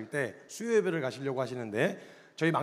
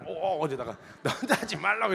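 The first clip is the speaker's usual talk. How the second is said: mock scolding that breaks into a laugh; laughing through it; 2 semitones higher than usual. Brother shoving his sister, laughing through the scold. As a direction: snap at her but laugh midway.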